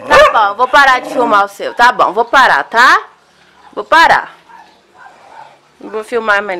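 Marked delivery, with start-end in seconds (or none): 0.1-4.4 loud reassurance. Real, not acted. Promising the dog to stop.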